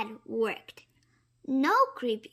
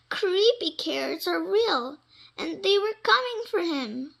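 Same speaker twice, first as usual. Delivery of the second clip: dramatic insistence; 7 semitones higher, 4 dB louder than usual. A narrator's reading. Jasper convinced, dramatic.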